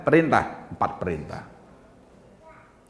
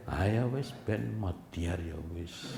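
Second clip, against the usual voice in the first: slow, soft and cold, much softer; quiet cruel calm; 8 dB quieter, much slower than usual. Retold or imitated. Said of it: "Pelan, kalem, sadis".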